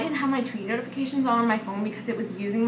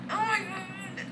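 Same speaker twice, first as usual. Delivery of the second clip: starstruck gasp; 10 semitones higher, 5 dB quieter, slower than usual. Retold or imitated. Meeting Jacob backstage.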